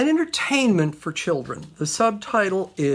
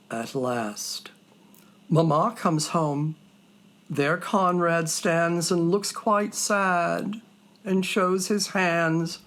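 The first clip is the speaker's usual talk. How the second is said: lively, measured verse recitation; theatrical storytelling in rhyme; dramatic poem recital; slower than usual. Acted. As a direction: recite a cautionary tale with relish.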